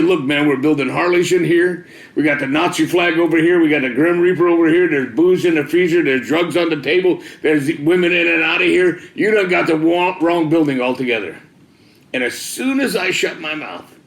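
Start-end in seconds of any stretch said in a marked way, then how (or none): 0.0-11.4 louder and higher, listing it all off in exasperation; exasperated raised voice; heated protest. Retold or imitated. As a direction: argue back at the ceiling, worked up.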